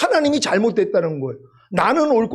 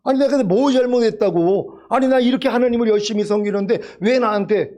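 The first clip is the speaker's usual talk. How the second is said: mildly acted protest to God, slightly raised pitch; 원망하는 항의; 4 semitones higher than usual. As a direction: voice a believer's aggrieved "why me". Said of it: "하나님을 책망할 때가". (하나님께 따지듯 가볍게 항의하는 말투)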